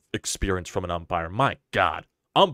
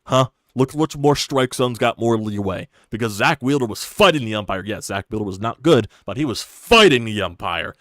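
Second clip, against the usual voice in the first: heated rant; 2 semitones higher, 6 dB louder than usual. Real, not acted. Arguing the strike zone was unfair.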